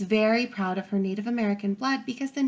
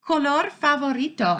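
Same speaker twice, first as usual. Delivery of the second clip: happy thanks; 5 semitones higher than usual. Acted. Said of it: "I tell her".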